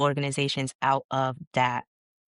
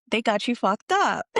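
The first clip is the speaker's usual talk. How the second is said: high, raised-voice quote of a friend; mock-outraged homegirl, pitched up; retold outrage; 7 semitones higher, 4 dB louder than usual. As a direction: imitate a friend's indignant verdict. Retells colleague's outraged verdict.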